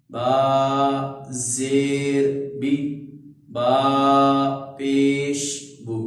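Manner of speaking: slow, chanted syllable drill; spelling drill. Shown as a demonstration. Teacher chanting harakat drills for students, slow sing-song. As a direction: sing out each letter and vowel slowly.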